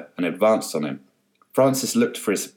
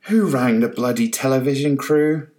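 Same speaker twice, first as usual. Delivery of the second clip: loud angry call; shouted; 5 semitones higher, 4 dB louder than usual. A narrator's reading. Carol furious at the TV crew on her lawn, loud shout. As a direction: yell it in outrage. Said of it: "Carol shouted".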